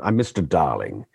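lightly put-on English accent; generic English accent. Shown as a demonstration. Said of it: "that's just my generic English, English accent".

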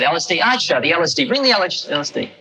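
high, lightly voiced realisation; a hint of the guru catching on; guru, realising. Guru realising the medicine means the LSD.

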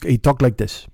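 light mock Swedish accent; a hint of a Swedish accent, imitated; Oscar. Showing how the Swedish neighbor talks, light imitated accent. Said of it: "I won't do Oscar's accent".

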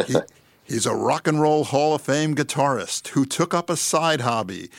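light epic trailer narrator, half laughing; a hint of the big movie-trailer announcer. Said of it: "in my best movie trailer narration voice".

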